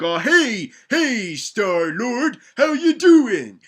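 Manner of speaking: a hint of a drawn-out greeting; slow, hammed-up tough guy hello; mock villain greeting Star-Lord; Kingpin voice. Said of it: "And he's like".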